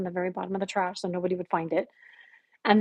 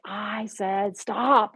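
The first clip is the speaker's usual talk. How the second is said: very slow, drawn-out order, imitating thunder; thunderous command; 3 dB louder, much slower than usual. Retelling the voice that stopped her, thunderous command. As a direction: stretch each word as a commanding warning. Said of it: "fire, thunder".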